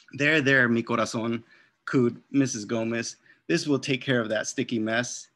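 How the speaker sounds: lively read-aloud to children, voicing each character; story narration. A narrator's reading. Author reads picture book aloud.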